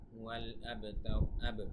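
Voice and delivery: আবতার slow, with an echoing bounce on the b; qalqalah. Shown as a demonstration. Teacher shows students qalqalah, bouncing b in আবতার. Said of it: "এখানে কলকলা হবে".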